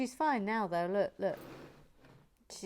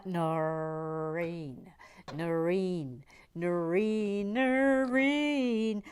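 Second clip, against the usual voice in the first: calling out; 4 dB louder, much slower than usual. Real, not acted. Calling for Noreen repeatedly.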